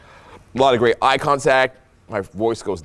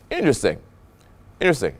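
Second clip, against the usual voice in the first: "interesting" set apart by pauses, falling; intrigued intonation; 2 semitones higher, faster than usual. Shown as a demonstration. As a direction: let "interesting" land alone as a reaction. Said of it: "it's how I'm saying it".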